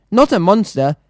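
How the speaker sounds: lightly voiced old monk, a hippo rising high; a hint of a patient old man; old monk correcting. Old monk correcting the crowd, gently insistent. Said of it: "the old man repeated".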